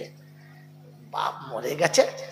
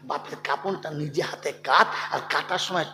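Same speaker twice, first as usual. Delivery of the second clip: gentle counsel; 3 dB quieter than usual. Acted. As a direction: ease down to tender advice. Tender advice after shouting. (নরম, ধীর স্বরে উপদেশ)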